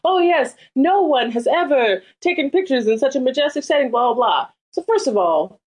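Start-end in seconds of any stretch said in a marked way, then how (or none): 0.0-4.5 mock photographer. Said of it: "they're like".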